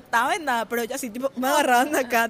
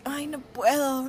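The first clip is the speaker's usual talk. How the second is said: mock whiny faking; 2 semitones higher than usual. Faking inability to write.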